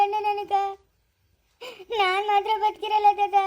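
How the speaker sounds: wailing, tearful complaint; crying. Acted. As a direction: plead through tears to grandfather. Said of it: "ಯಾಕೆ ಅಳ್ತಾ ಇದೀಯ ಸ್ನೇಹ". (ಅಳುತ್ತಾ ಗಂಡನ ಮೋಸ ಹೇಳುವ ದನಿ)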